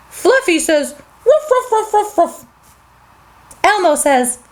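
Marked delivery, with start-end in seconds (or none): 1.2-2.4 higher playful yapping; lightly voiced small dog; dog barking. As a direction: bark like a happy puppy. Fluffy the dog barks.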